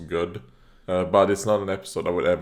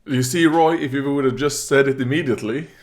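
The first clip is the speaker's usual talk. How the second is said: scolding; 5 semitones higher, 5 dB louder than usual. Real, not acted. Scolding a cartoon character.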